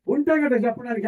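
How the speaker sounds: voicing the congregation's excuse as a rising question; mock excuse from the listeners. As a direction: ask "ఉంటే కదా చెప్పడానикి" back as if the crowd said it. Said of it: "అంటారా".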